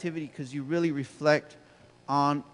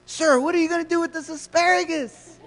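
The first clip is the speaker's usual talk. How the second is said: much higher, bright mock-friendly clerk voice; cheery cashier voice; 12 semitones higher, 4 dB louder than usual. Trader Joe's cashier greeting a grumpy customer, high and chipper. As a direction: chirp it like an overeager cashier. Cashier asks about asparagus.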